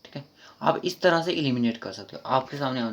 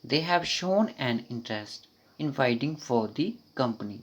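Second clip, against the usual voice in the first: slow full read; much slower than usual. Shown as a demonstration. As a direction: read the whole sentence slowly. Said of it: "पूरा sentence पढ़ते हैं".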